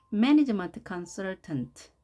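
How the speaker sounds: slow stressed MAN in Management Consultant; drawn-out teaching pronunciation with stress on MAN of Management; teacher model word. Shown as a demonstration. Teacher to pupils: very slow model read, MAN stressed. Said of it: "강세를 별도로 또 표기해 봤습니다".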